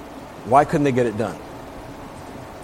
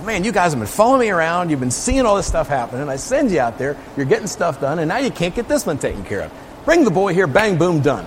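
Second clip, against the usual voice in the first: higher, impatient chiding of his disciples; fed-up teacher scolding his students; exasperated Jesus; 4 semitones higher than usual. Acted. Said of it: "borderline mad".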